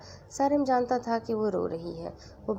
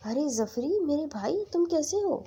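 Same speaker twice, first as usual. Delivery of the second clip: full of love; 7 semitones higher than usual. A narrator's reading. Sister greeting her long-lost brother on the phone, lovingly. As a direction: greet a dear little brother. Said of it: "سارا کے لہجے میں بے پناہ پیار تھا".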